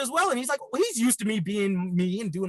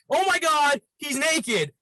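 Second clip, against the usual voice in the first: higher-pitched mock alarm; lightly acted shock, pitched up; retold freaking out; 6 semitones higher, slower than usual. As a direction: imitate her panicked report over the phone. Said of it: "she's freaking out".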